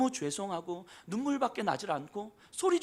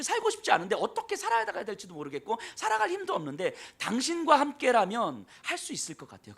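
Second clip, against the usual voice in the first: desperate plea; 6 semitones higher, 4 dB louder than usual. Acted. Woman's desperate plea voiced.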